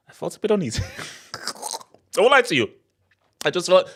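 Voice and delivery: high, fast words spilling through real laughter; giggling nervously, words tumbling out fast; laughing. Real, not acted. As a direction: laugh your way through the admission. Laughing confession about feeling uneasy.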